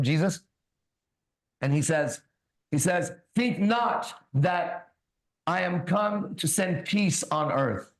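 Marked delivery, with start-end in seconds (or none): 3.3-7.9 slow, solemn Bible reading; scripture reading. Acted. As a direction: read each word like a sermon. Reads Bible aloud.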